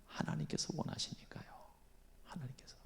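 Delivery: unvoiced hush; whisper. Real, not acted. Preacher whispering to the congregation. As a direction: breathe it softly.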